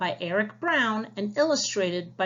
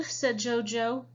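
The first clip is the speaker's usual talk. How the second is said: lively storybook read-aloud for the class; reading to children. Acted. Teacher reading a storybook aloud to her class. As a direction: read it like a picture book to young listeners.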